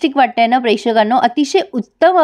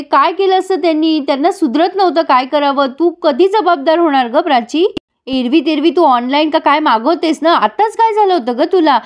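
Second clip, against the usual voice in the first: mildly acted scolding, pitched higher; retold angry scolding; 5 semitones higher than usual. Aunt berating Prachi for leaving a woman in labour, mock-angry. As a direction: voice an aunt's exasperated questions without shouting. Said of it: "पन्ना काकू खूप चिडते तिच्यावर".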